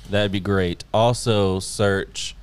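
slow, drawn-out alien voice. Acted. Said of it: "I guess I can talk in my alien voice".

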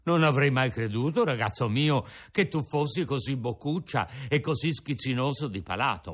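put-on an old father offering his breakfast; old Geppetto. Geppetto lectures the puppet.

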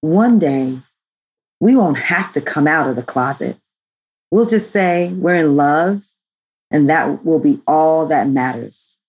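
earnest recited quote. Shown as a demonstration. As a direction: read it like an inspirational quote. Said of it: "Should I put on my quote voice?".

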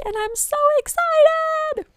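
very high, loud squeal of excitement; excited squeal. Real, not acted. Podcaster announcing her newly published website, squealing with excitement. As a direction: squeal it out, pitch shooting way up.

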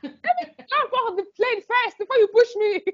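high, laughing joke at the cohost; laughing retort. Real, not acted. Host teasing the cohost who cut her off, laughing. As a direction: tease through laughter.

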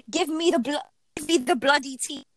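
a light British "bloody tea"; British accent demo. Shown as a demonstration. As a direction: show how a Brit says "Give me the bloody tea". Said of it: "no, say".

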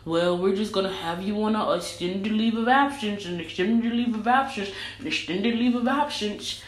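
mock-corporate, smooth and scripted; a hint of a bland HR rep repeating the policy. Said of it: "for fucking Amazon to be like".

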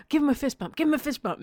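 put-on eager parent prompting a small child; playful coaxing. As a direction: egg a little one on, playfully. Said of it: "then I'd be like".

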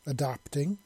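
"Adapting" set apart with weight; "Adapting" as a separate, emphatic word; emphasis on Adapting. A narrator's reading. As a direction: lean pointedly on "Adapting". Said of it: "putting real emphasis on that last word".

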